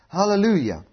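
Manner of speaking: a ringing, emphatic Hallelujah; exclaimed praise. Real, not acted. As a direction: lift the Hallelujah to the congregation. Preacher calls out praise.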